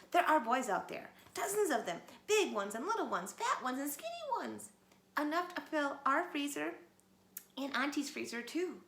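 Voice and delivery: loud, high excited shout. A narrator's reading. Little Wolf runs in shouting to his parents. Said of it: "he ran into the cave shouting".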